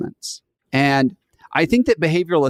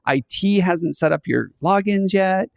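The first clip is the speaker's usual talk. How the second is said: fake cheerful boss; 5 semitones higher than usual. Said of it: "And then Bob's like".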